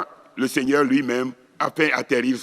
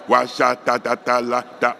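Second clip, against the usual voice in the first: spoken tongues syllables; 2 semitones lower than usual. Shown as a demonstration. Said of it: "on continue de prononcer des syllabes".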